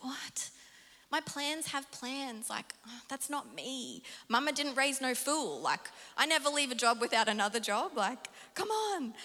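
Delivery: mock outrage at the idea; incredulous protest. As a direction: act out a baffled refusal. Retold protest to God.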